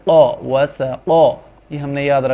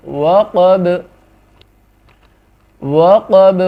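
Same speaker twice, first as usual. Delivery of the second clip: emphatic demo; 5 dB louder, slower than usual. Shown as a demonstration. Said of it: "وقفا".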